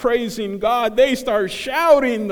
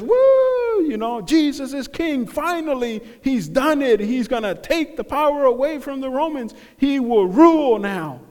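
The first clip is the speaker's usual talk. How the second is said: excited crowd cheer; 5 semitones higher than usual. Retold or imitated. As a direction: burst in like fans cheering their hero. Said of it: "they're screaming at the top of their lungs".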